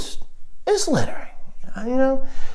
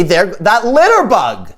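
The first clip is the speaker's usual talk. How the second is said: raised-pitch mock accusation; mock calling out; 4 semitones higher than usual. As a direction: call out as if alerting passers-by. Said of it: "I'd try to get people's attention".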